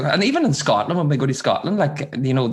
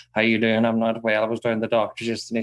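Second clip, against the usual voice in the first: rambling corner-shop granny; 4 semitones lower than usual. Acted. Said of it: "you might meet someone".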